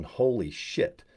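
drawn-out, slowed, hushed disbelief; slow awed holy shit. Pretend. Imagining hitting diamond live online, slow stunned awe. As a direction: savour it slowly, dazed.

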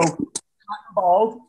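slow, deliberate classroom chant; slow sing-song class rule; teacher cue. Shown as a demonstration. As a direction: say it like a kindergarten teacher. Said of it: "I looked and I go".

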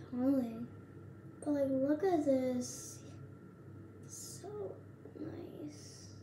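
face covered by thin mask; speaking through sheet mask; wearing a sheet face mask. Real, not acted. Seen 3: Girl's face covered by wet sheet mask while speaking, mouth opening free.

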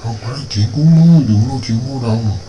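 loud, stern challenge to the beast; angry hunter. Acted. Hunter shouting down the tiger to protect the girl, loud and stern.

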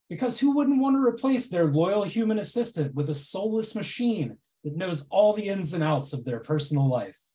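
dry mock reassurance; deadpan irony, tongue in cheek; sarcastic. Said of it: "my incredibly sarcastic presentation".

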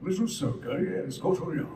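a hint of old alien sage, measured; Plo Koon voice. Shown as a demonstration. Actor demonstrating his Plo Koon voice, lightly. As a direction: speak like a wise alien master. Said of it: "I do it like this".

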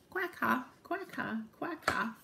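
high, short quack-has; laughing ducks. Acted. Ducks waking up with a laugh, high quacking. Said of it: "woke up with a laugh".

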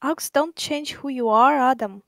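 flat machine-like read; robotic text-to-speech. Acted. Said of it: "sounded like a text-to-speech converter".

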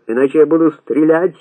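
mild shout, threatening. A narrator's reading. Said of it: "закричал ещё раз Касым". (угрожающий крик)

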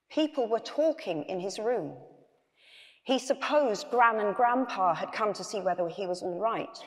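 measured read-aloud storytelling; story narration. A narrator's reading. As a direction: read the bedtime tale to an audience.

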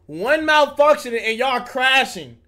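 slow, forceful disbelief; emphatic warning. Real, not acted. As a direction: hammer out the whole warning in one run.

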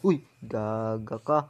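startled shout, slow; loud outburst. Real, not acted. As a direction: yell it out in surprise.

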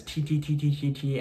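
"T" said as a crisp, fast tongue-tip tap, over and over; repeated T drill. Shown as a demonstration. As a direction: fire off "T, T, T" quickly, tongue tapping the ridge. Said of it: "say the letter T like this".

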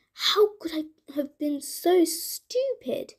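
muttering, annoyed with himself; angry at himself. Acted. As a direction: scold yourself under your breath. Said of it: "he said to himself angrily".

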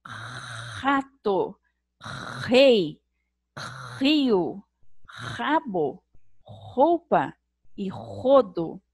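"rato", "rei", "rio", "rabo", "roupa" e "rodo" each said slowly with the R scraped in the throat; raspy R demo. Shown as a demonstration. Teacher showing children the throaty R sound. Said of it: "ela tem o som de raspar a gargantinha".

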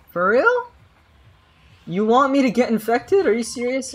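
high, exasperated disbelief; can't believe what chat asks; incredulous. Real, not acted. Reacting to chat request.

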